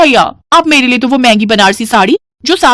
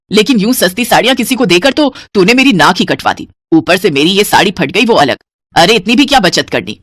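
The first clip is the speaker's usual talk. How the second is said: angry shout. Acted. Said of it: "जोर से चिल्लाते हुए कहती है".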